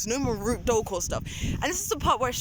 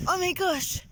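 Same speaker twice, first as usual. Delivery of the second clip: slow, raised mock-dramatic accusation; mocking stepbrother; 6 semitones higher, slower than usual. Mimicking the stepbrother reporting to dad's work, slow mock drama. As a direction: ham up the tattletale's gasp, slowly.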